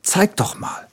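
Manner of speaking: gentle whispered request; hushed little bear voice. A narrator's reading. Bear asks to see wound.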